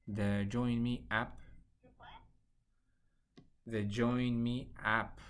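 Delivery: slowed down, each word clear. Real, not acted. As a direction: spell it out slowly over a bad line.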